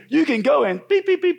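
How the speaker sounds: loud, high colleague's retort with beeps; mock angry outburst. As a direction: curse him out in censor beeps. Colleague's imagined cursing, self-censored.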